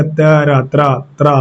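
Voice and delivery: त and र named, then blended into त्रा; teacher joining त and र into one त्रा; blended sound demo. Shown as a demonstration. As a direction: say त, र, then join them as त्रा. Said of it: "पढ़िएगा".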